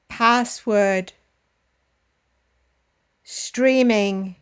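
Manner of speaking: each word from Freeware to Wi-Fi punched on its first syllable, then falling; first-syllable stress. Shown as a demonstration. Teacher models computer terms for learners to repeat, first syllable stressed in each, as in FREEware. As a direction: model every term with the opening syllable strongest, as in SHAREware, DOWNload, UPload. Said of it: "Notice that the stress is always on the first".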